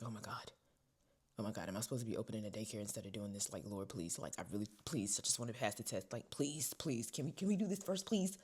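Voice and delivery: low mumbled prayer rising into begging; desperate prayer. Retold or imitated. Praying in the car before the test, begging. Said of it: "in the car praying".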